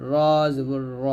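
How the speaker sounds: thick, rounded "র" in "জবর র"; heavy letter. Shown as a demonstration. Teacher showing learners the rule, "র" said heavy. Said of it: "রটা এখানে মোটা হবে".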